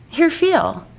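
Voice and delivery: Barbie voice. Acted. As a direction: offer it in a high doll voice. Barbie answers.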